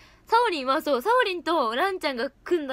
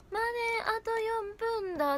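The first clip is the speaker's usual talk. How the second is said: excited member near last train; 9 semitones higher than usual. Retold or imitated. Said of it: "ってめっちゃ踊り出すの".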